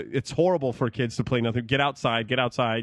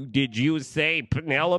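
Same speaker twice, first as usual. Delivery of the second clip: mocking weird headset voice, higher pitched; 3 semitones higher than usual. Complaining about a headset's voice dialing, mimicking it in a weird, stupid voice. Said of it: "like this weird, stupid voice".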